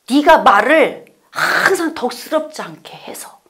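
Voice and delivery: breathy whisper of reproach; God whispering a reproach; whispered rebuke. Acted. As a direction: whisper the charge gently but firmly.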